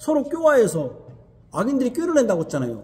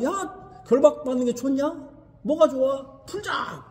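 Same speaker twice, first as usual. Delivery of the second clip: mock tempter; 3 semitones higher, 3 dB quieter, slower than usual. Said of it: "이렇게 하는 거예요".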